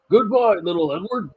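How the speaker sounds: loud high goodbye, called out; bright call over his shoulder; cheery goodbye call. A narrator's reading. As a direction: sing out a proud farewell. Gordon puffs away calling.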